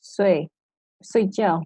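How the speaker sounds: "睡, 睡觉" said separately in Mandarin tones; Mandarin pronunciation demo. Shown as a demonstration. Co-host gives listeners another example, "睡, 睡觉" as a Mandarin demo. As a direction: demonstrate "睡, 睡觉" word by word in Mandarin. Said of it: "give a demonstration of how".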